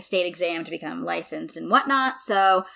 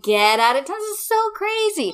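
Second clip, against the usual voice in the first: higher, rising into amazement; amazed disbelief; 13 semitones higher than usual. Retold or imitated. Retelling meeting more friends, amazed disbelief. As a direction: act out being floored. Acted own amazed reaction.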